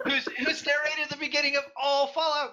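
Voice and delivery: laughing through the words. Real, not acted. Laughing while speaking.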